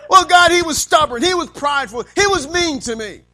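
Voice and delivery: loud, high complaint about the husband; wife complaining to God about her husband, loud and high. Pretend. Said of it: "He's not gonna say".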